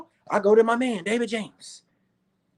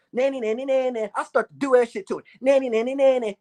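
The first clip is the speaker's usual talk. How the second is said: put-on toddler taunt; 2 semitones higher than usual. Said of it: "I turned into a goddamn toddler".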